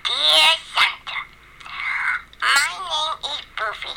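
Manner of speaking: a good dog reading its wish list; dog dictating. Acted. Dog dictates its Santa letter.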